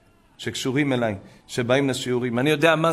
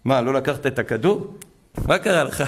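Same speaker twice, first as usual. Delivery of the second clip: mock scolding. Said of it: "אמרתי".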